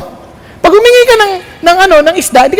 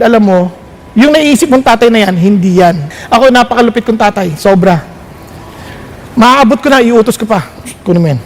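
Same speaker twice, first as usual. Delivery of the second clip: lightly voiced God, a bit lower and calm; voicing the Lord; 4 semitones lower than usual. Preacher giving God's reply to the congregation, lower and calm. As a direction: speak as a firm but loving father. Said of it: "Sabi ng Lord".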